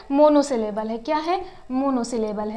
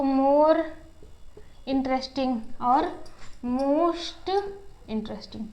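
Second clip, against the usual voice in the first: slow, careful model; much slower than usual. Shown as a demonstration. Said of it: "यहाँ देखिए interesting है".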